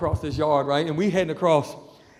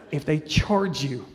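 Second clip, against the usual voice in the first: deliberate repeat; 4 semitones lower, slower than usual. Retold or imitated. Repeats warning after being asked what.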